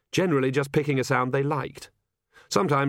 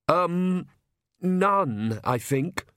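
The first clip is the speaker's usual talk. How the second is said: timid priest voice; 7 semitones higher, much slower than usual. A narrator's reading.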